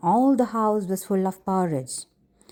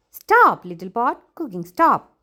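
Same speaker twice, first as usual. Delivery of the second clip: urgent shouted command to the pot; loud command; 5 semitones higher, 4 dB louder than usual. Acted. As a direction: Stop shouted loud and high. Girl halts the overflowing pot.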